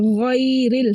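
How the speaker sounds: गैरिल with open full "ghai"; heavy ghain. Shown as a demonstration. Teacher pointing out the thick letter, full "ghairil". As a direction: fill the mouth on गैरिल. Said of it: "मोटा ही पढ़ रहे हैं".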